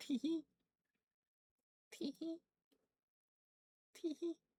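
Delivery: very high, soft, tiny squeaked tee hee. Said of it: "what Floop sounds like when they go".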